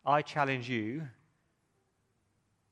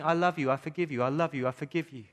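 shouting. Acted. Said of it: "God is shouting".

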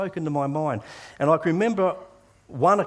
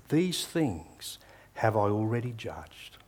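slow and quiet, a calm divine pronouncement; God answering the anxious young soldier, quiet and slow; slow, solemn voice of God; 3 semitones lower, 4 dB quieter, slower than usual. Retold or imitated. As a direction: let each word fall slowly, with gentle authority. God's words quoted slowly.

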